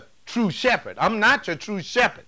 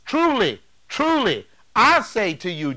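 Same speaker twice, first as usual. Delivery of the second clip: proclaiming; 3 semitones higher than usual. Acted. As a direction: ring out each "truly" like a herald. Preacher voicing Jesus, proclaiming.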